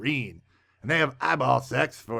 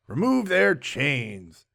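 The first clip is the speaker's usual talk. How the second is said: slow, grave official order; hammed-up stately command; mock solemn command; much slower than usual. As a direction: decree it slowly like a governor. Governor gives an order.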